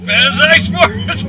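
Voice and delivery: slow, high shouted pitch under G-force; practicing a speech. Shown as a demonstration. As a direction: shout the opening line as the car launches. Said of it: "He's gonna pitch, while we're launching the car".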